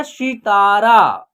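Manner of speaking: सितारा slowly, syllable by syllable; pronunciation demo. Shown as a demonstration. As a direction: stretch the long vowels in सितारा. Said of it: "क्या हो जाएगा?". (धीमे, खींचकर सितारा का उच्चारण)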